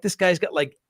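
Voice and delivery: incredulous protest. Retold or imitated. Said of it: "And I'm like".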